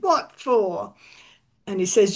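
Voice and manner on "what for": lazy New England drawl, barely bothered; lackadaisical New England. Acted. Captain Anthony answers the police, lackadaisical New England accent. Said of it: "lackadaisical New England accent".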